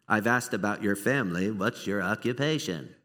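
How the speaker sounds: low, mock robotic interview voice; a hint of a robot ticking off questions; robotic questioner. Pastor mocking a robotic interviewer, in a low flat tone. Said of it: "Sorry for the accents today".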